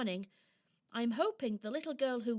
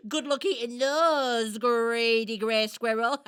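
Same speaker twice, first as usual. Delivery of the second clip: laughing taunt; 5 dB louder than usual. Acted. Taunting the rival squirrel.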